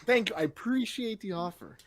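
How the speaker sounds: high, hammed-up polite panic; flustered refusal. Man turning down woman's offer, flustered. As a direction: stammer a high-pitched mock refusal.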